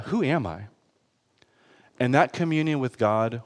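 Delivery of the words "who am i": soft, subdued self-questioning; hushed retold realisation; humbled thought. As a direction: say it quietly to yourself, humbled. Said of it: "I thought".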